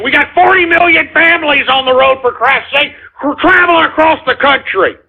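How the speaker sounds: a radio host losing it at his listeners, yelling; angry rant. Real, not acted. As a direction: chew out the prank callers at full volume. Host rants at prank callers.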